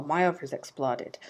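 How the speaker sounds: sheepish whisper; whispered excuse. Retold or imitated. Telling the hostel why she can't come: whisper. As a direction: drop it to a whisper, embarrassed.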